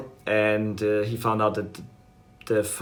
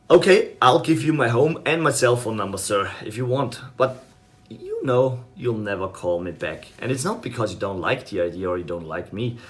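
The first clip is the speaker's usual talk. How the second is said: salesperson script. Shown as a demonstration. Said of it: "here's how it goes".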